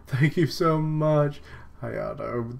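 high, loud, drawn-out gratitude; effusive acted thanks. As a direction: gush the thanks, slowly and high. Rescued character thanks another.

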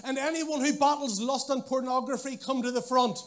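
loud, high Northern Irish interpreter call; Northern Irish accent. Pretend. Interpreter calls strugglers forward: loud Northern Irish accent. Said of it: "interpreter had a Northern Irish accent".

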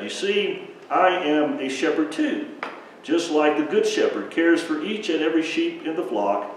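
softening to a hush by the end; Jesus lovingly telling the crowd he cares; tender Jesus. Acted. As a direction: speak gently to every child.

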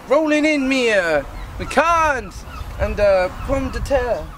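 halting mock Cockney; improvised, unconvincing Cockney; attempted Cockney accent. Shown as a demonstration. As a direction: try Cockney slang, pausing to invent it. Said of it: "do a better Cockney accent".

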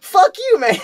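high, loud mock yell of fuck you; defiant yell. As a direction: fling it back defiantly. Retold defiant outburst.

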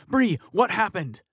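high, loud, slow pleading question; slow urgent demand. Acted. Fiancé pressing the sister again, slow urgent shout. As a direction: drag out the question, desperate. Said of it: "Tyler asked her".

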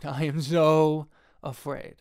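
slow, laughing repeat of the confession; laughing mock fear. Shown as a demonstration. Filmmaker repeats his fear to viewers, slow and laughing. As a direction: drag it out with a laugh, half joking. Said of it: "And I am so afraid".

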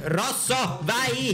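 high-pitched excited cheer; excited urging. Real, not acted. Racing friends to the red block, high excited urging. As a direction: urge them on in a high, excited voice.

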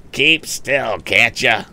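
irritated, moderately loud bully shout; bully's shout. Acted. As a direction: shut him up loudly. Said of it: "shouted the bully".

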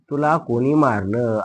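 drawn-out question, word by word; slow dictation. Shown as a demonstration. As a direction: repeat it slowly for the class. Teacher repeats slowly for dictation. (सावकाश प्रश्न पुन्हा सांगणे)

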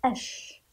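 "أش" alone with a long held sh; sounding it out. Shown as a demonstration. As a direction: stretch the sh of "أش". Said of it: "ننطق ونرى". (نطق "أش" بشين مشددة ممدودة)

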